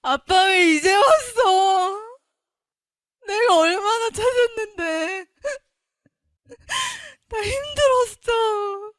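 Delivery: put-on slow, high, sobbing child's complaint; bratty crying. The daughter crying to her heavenly father, slow, high and sobbing. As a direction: wail it like a hurt child to a late father. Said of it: "되게 버르장머리 없이 그랬어요".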